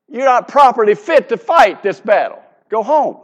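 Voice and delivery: loud commander sending a rookie home, half laughing; swat leader barking orders. Retold or imitated. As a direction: boss the unprepared officer off the scene. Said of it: "what do you think the guy would tell you?".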